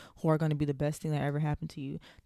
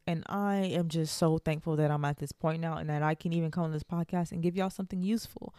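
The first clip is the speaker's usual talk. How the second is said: out of breath. Real, not acted. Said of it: "I'm out of breath".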